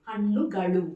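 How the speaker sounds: హన్నుగలు with retroflex ణ and ళ; firmly modelled హన్నుగలు, final l as ళ; correct Kannada pronunciation. Shown as a demonstration. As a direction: curl the tongue back on the nn and l of హన్నుగలు. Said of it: "హన్నుగలు అనరు".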